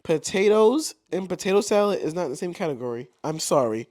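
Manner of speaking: leaning right into the mic; close to the mic. Real, not acted. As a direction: talk right into the microphone. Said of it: "Why are you talking so close?".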